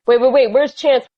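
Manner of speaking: alarmed. Retold or imitated. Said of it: "Winston is like".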